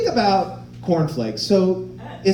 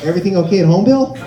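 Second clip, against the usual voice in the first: mock concerned coworker; 3 semitones higher than usual. Comic imagining telling Bill in the meeting, mock concern. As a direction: laugh through a mock caring intervention. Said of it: "I would have been like".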